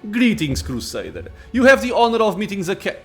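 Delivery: proud, imperious lich greeting; arrogant lich. Acted. Voices the lich.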